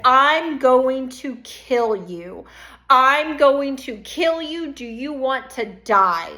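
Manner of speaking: slow, menacing repeat of the threat; a slow, measured hint of menace; retold threat. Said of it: "and said".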